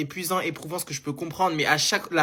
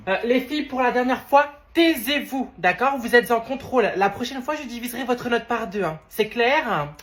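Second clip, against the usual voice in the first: stern teacher; 5 semitones higher than usual. Acted. Teacher scolding the girls in the exam, stern. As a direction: lay down the law.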